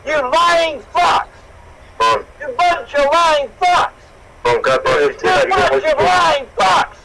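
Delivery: slow, spitting out each word, building to a shout; bitter disgust rising to a yell; slow building rage; slow furious condemnation. Real, not acted. Enraged father condemning the hosts.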